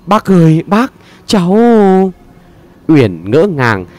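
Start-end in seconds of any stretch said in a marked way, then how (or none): 0.1-1.6 stammering. A narrator's reading. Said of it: "ấp úng được mấy tiếng".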